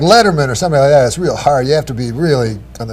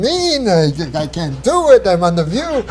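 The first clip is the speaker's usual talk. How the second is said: higher, hammed-up Jewish accent, complaining he can't do it; mock Jewish accent, pitched up, a touch exasperated; crazy Jewish accent; 4 semitones higher than usual. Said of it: "I had this crazy Jewish accent in the story".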